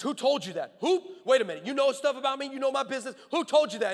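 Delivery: rising, incredulous retold questions; mock startled disbelief. Biker asking how a stranger knows his business, mock disbelief. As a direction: imitate a startled man firing off questions.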